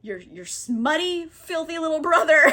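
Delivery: imitated contempt, building into a laugh; half-amused mock anger; pissed-off Duke. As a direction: spit out mock insults, rising. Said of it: "He is still pissed".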